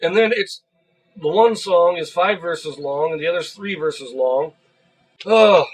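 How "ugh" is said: short, loud "ugh" of disgust; exasperated groan. Real, not acted. Exasperated at the disputed claim.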